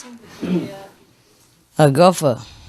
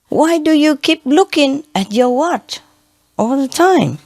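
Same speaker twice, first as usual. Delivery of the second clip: higher, quizzical golfer's question; puzzled golfer; 8 semitones higher than usual. Retold or imitated. Golfer asking the caddy about his watch, higher and puzzled. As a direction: ask it pitched up, puzzled.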